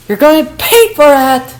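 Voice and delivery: high, loud threat; angry threat. Acted. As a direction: snap back with a promise of payback. Sumi threatens the girl.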